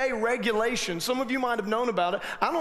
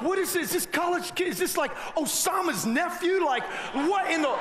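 alarmed; 5 semitones higher than usual. Retold or imitated. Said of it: "I'm like".

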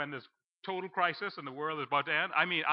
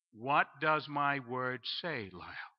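a hint of God's voice; 3 semitones lower, much slower than usual. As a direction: ask slowly and gently, like a patient teacher. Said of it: "He says".

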